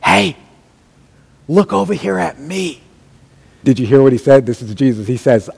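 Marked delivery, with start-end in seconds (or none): 0.0-2.8 calling out. Acted. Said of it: "he shouts at us and he says".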